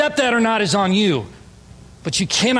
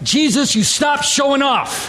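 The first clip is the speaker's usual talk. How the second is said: overwhelmed exclamation; 6 semitones higher than usual. Retold or imitated.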